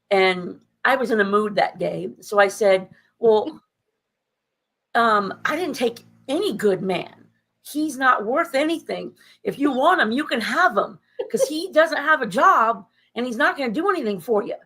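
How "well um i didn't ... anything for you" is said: sarcastic comeback. Retold or imitated. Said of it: "I was being sarcastic on purpose".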